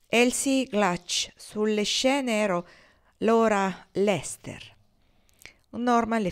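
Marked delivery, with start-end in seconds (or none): 0.1-4.7 very slow, curt and unyielding; same curt tone. Acted. Ortensia gives her names to Norman, slow and curt. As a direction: spell out the names slowly, unmoved. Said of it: "Con lo stesso tono rispose".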